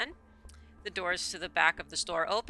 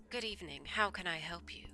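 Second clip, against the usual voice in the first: quiet shopkeeper; 9 dB quieter than usual. Acted.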